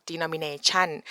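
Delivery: denomination with a high rising tone on tion; rising last syllable. Shown as a demonstration. Teacher showing how Thai speakers say the word. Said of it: "high rising tone at the last syllable".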